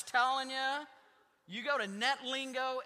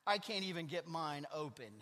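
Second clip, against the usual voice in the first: giggling lower Charlie Brown line; laughing through Charlie Brown; 6 semitones lower, 4 dB quieter than usual. Retold or imitated. Pastor telling the congregation a Peanuts joke, laughing. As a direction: laugh as you deliver the punchline. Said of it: "Charlie Brown replied".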